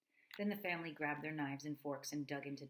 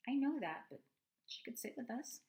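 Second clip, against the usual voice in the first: put-on high, loud girl's retort; young girl; 9 semitones higher, 5 dB louder than usual. Daughter answering her brother, high and insistent. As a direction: snap back like an annoyed little sister. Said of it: "said Jaya".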